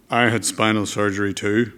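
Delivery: lightly put-on Northern Irish accent; Gerry Adams. Politician answers the boy about surgery, imitated Northern Irish accent. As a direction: imitate a Belfast speaker swapping stories. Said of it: "sorry about the accent".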